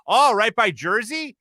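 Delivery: slow, lightly mimicked Wisconsin accent. Bar lady placing a visitor's hometown, lightly imitated Wisconsin accent. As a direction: draw it out as a mock Wisconsin local. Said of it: "hearing that accent talk about".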